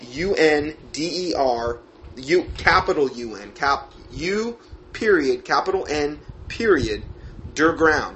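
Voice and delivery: slow letter-by-letter spelling; dictating. Real, not acted. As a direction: spell each letter out slowly.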